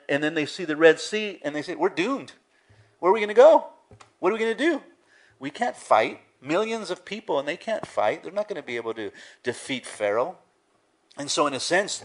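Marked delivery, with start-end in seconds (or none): 1.8-10.4 high, loud panicked cry of a trapped crowd; panicked Israelites. Retold or imitated. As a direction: voice the doomed people's panic, rising high. Israelites panicking at the Red Sea.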